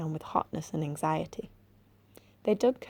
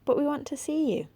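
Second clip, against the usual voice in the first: high, louder brave call; bravely; 9 semitones higher, 3 dB louder than usual. A narrator's reading. Boy calling down the hole to the creature, bravely high. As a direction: sound braver than he feels. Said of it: "said Robert bravely".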